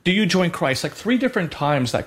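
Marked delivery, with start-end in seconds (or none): 0.0-0.8 higher, lightly voiced priest asking again; repeated rite question. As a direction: ask it once more from the rite, pitched up. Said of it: "same response would be".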